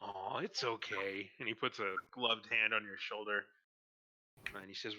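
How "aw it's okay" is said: soothing guard. Acted. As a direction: ease the child gently, drawing it out. Guard comforts crying child.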